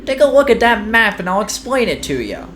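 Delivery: high, brash boss voice, chuckling; cocky park boss. Acted. The park boss brags to Mario, high and brash. Brickle explains the map.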